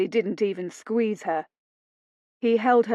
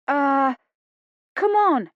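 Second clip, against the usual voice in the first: higher, impatient; urging Lila; 6 semitones higher, 5 dB louder, slower than usual. A narrator's reading. Lila to Phoebe, higher impatient. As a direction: hurry her along.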